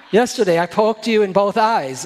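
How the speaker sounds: laughing. Pretend. Joking dialogue about forgetting.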